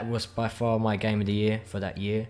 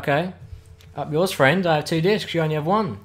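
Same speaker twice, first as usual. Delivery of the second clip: taunting; 5 semitones higher, 3 dB louder than usual. Retold or imitated. Taunting friend over game discs.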